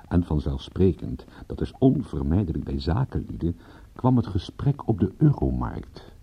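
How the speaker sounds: slow, dry storyteller aside; story narration. A narrator's reading. Detective recounts the cigar and cognac chat, slow wry narration. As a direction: lean back and tell it wryly to the listener.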